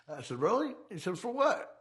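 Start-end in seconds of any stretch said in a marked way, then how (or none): 0.4-0.7 pitched way up, mock disbelief; a retold high squeak of doubt; incredulous. Teller's surprise at his buddy's heist plan. 1.2-1.7 pitched way up, mock disbelief; a retold high squeak of doubt; incredulous. Teller's surprise at his buddy's heist plan.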